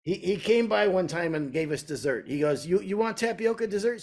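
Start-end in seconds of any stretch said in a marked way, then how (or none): 2.6-4.0 higher-pitched solicitous offer; imitated eager owner. Restaurant owner offering his regular a dessert, high and eager. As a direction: imitate a host coaxing in a raised voice.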